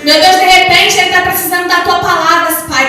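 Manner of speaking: loud, urgent plea to God; earnest retold prayer, voice lifted; impassioned prayer. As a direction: pray aloud with rising fervour.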